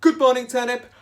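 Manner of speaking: high, loud sing-song good morning; cheerful greeting. Retold or imitated. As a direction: greet the turnips brightly. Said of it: "He would say".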